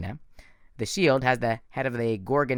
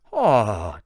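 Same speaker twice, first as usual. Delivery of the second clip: menacing villain; 2 semitones lower, 6 dB louder than usual. A narrator's reading. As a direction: command them like a cold monster. Thorne speaking.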